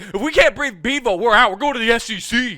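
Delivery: a touch of hammed-up indignant Texans, high and loud; mock Texas officials. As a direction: play the offended Texans quitting the league. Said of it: "They're like".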